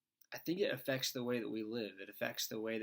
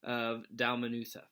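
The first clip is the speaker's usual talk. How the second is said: steady Bible reading voice; scripture reading. Acted. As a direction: read the gospel passage clearly to listeners. Reads scripture passage aloud.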